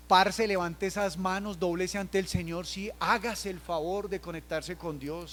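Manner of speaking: slow, insistent urging of the youth; slow exhortation. Retold or imitated. Pastor urging young people, slow and insistent. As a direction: draw it out, pleading with them. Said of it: "Yo a veces deseo a los jóvenes".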